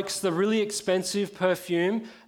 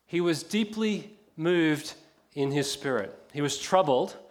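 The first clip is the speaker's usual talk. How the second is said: slow reading. Shown as a demonstration. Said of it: "actually doesn't mean deeply moved or troubled".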